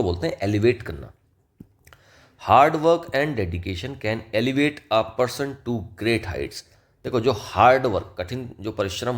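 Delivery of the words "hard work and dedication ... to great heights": slow, deliberate reading of the example; slow dictation. Shown as a demonstration. Teacher reading the example sentence to students, slowly and deliberately. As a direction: read it out word by word for the students.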